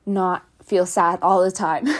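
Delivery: a little out of breath from stairs; breathy and winded after running. Real, not acted. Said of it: "Sorry, I'm a little out of breath".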